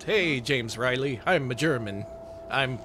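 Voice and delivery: slow, hammed-up German accent that misses; German accent drifting into Italian; bad German accent. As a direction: attempt a German accent and botch it. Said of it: "it would be with a German accent".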